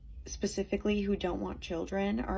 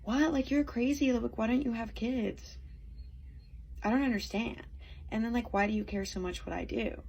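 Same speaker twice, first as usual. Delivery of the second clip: mock disbelief, pitched up, what?; incredulous; 4 semitones higher than usual. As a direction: imitate people baffled by you. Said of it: "everyone being like".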